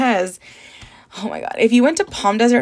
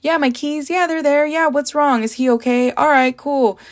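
breezy, offhand phone talk pitched higher; lightly voiced careless son on the phone, higher and breezy; mock nonchalant; 4 semitones higher than usual. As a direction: imitate a guy shrugging off bad news, casual and higher. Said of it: "Very nonchalant".

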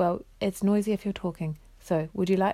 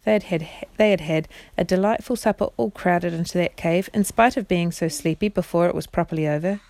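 expressive bedtime story narration; measured storyteller voice; reading to children. A narrator's reading. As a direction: read it aloud as a storybook for children. Reads story aloud to children.

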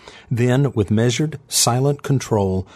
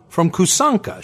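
resigned; 9 semitones higher than usual. A narrator's reading. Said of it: "she surrendered".

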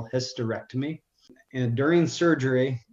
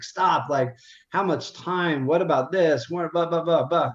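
higher, urgent rush of questions at the doctor; frantic questioning; 4 semitones higher than usual. Retold or imitated. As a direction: pepper her with desperate questions. Chasing the doctor down the hallway.

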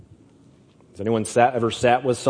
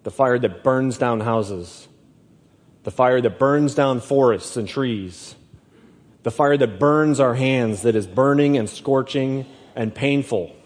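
slow, weighty listing of fires; slow preaching cadence; slower than usual. Acted. Preacher warning the congregation, slow and weighty. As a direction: lean on burns in each line.

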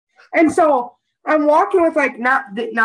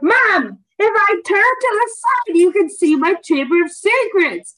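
mock panic to mom; 7 semitones higher than usual. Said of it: "I was like".

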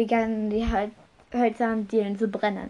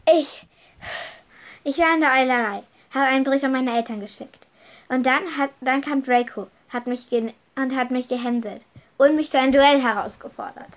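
defensive account; 3 semitones higher, 4 dB louder, faster than usual. Acted. Max defends himself to teachers.

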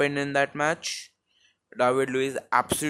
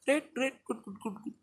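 sarcastic; 10 semitones higher, 8 dB quieter, much faster than usual. Acted. Sarcastic reaction to his pace.

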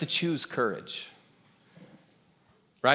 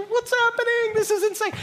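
much higher, incredulous cry; amazed; 7 dB louder than usual. Retold or imitated. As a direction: blurt it to your buddy in wonder.

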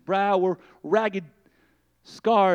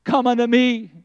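louder, firm invitation; ringing call; 3 semitones higher, 4 dB louder than usual. Acted. Preacher calling someone forward, full voice. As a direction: call it out with force now.

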